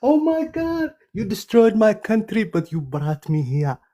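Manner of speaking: high, pleading mock servile voice; mock groveling slave. Mocking the man who wants him grateful, high servile voice. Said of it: "beg him and say".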